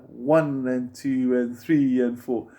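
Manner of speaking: slow count, leaning on "One" and "three"; accents on one and three. Shown as a demonstration. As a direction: count the beats slowly, marking where "One" and "three" land. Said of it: "going louder".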